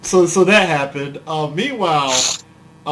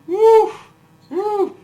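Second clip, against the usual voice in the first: loud, high celebratory woo; excited whoop; 6 dB louder than usual. Real, not acted. Cohost cheering for Dallas facing the Dolphins, excited whoop. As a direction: cheer it like a fan hyping Dallas.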